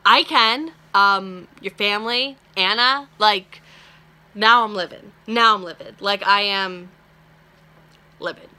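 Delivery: loud, indignant outburst; angry. Real, not acted. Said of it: "I'm a little bit angry right now".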